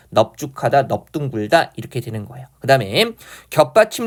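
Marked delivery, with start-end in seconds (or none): 0.1-1.7 넙죽하다, 넙둥글다 begun with neop; exceptional pronunciation demo. Shown as a demonstration. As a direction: close on p in 넙, no l, then tense the next consonant. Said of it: "넙으로 발음해서".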